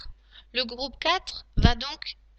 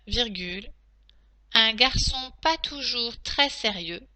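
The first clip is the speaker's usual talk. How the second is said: steady reread of the dictation. Shown as a demonstration. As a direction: read it back for checking. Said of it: "je vais donc maintenant relire la dictée".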